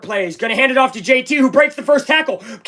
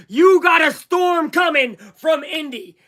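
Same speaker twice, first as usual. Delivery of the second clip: excited shout; 5 semitones higher than usual. Real, not acted. Hyping next game.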